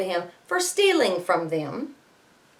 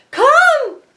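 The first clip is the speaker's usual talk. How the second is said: sudden high, louder cry; wife cries out; 9 dB louder than usual. Acted. Teacher voicing the giant's wife, high urgent cry. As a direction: call out fast to distract him. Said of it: "cried his wife quickly".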